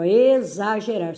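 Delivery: "exagerar" with the first syllables stretched apart; separando sílabas. Shown as a demonstration. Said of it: "Separar a sílaba aí". ("exagerar" com as sílabas destacadas)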